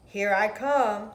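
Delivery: loud, slow joyful answer; cheerful here I come; happy reply. Acted. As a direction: call back with glee. Fish answers happily.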